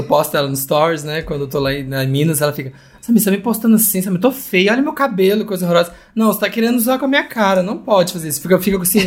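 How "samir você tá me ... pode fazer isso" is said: imitating a mildly horrified mom, raised pitch; mock motherly protest. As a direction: fuss like a self-conscious mother.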